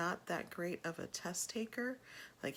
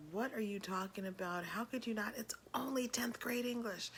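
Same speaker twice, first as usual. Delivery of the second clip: higher-pitched mock telling-off; retold angry scolding; 6 semitones higher than usual. Mother lighting into her son over his failed test, retold angry scolding. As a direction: reenact laying into someone, pitch climbing. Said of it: "I lit into him".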